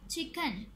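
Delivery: "चिकन" in two distinct beats; "चिकन" split for syllable counting. Shown as a demonstration. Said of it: "इसके भी टू syllables हैं".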